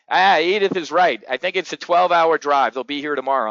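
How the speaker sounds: a loud retiree agreeing with his wife; Harry impression. Harry backing up Edith at the pool, lightly voiced old man. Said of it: "Harry's like".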